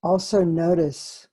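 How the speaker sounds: spacious meditation pacing with long pauses; guided meditation. Acted.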